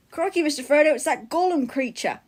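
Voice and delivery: mock Crocodile Hunter accent; Australian Sam. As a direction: play an Aussie hobbit spotting a creature. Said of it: "Sam doing the Crocodile Hunter voice".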